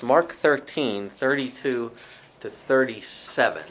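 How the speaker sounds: "Mark thirteen" spelled out slowly so the group can find it; slow dictation. Shown as a demonstration. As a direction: read the reference slowly, one chunk at a time. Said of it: "if somebody finds that".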